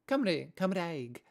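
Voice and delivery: Cymru, Cymraeg said slowly in Welsh; Welsh words. Shown as a demonstration. Showing viewers Welsh names, slow and careful. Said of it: "in Welsh is Cymru".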